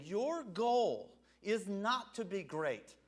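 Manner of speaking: drawn out, each word weighed; slow it right down on "Your goal is not to be great"; slow emphatic quote. Shown as a demonstration. Preacher to congregation, slowly and deliberately spelling out the point. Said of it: "he's saying".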